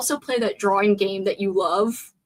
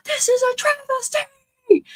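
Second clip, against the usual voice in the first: whisper yell; slower than usual. Acted. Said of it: "trying to yell, but whisper yell".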